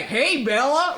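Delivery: a lightly put-on bad Southern accent; a passing hint of a Southern accent, half laughing. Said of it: "I'm suddenly having a really bad Southern accent".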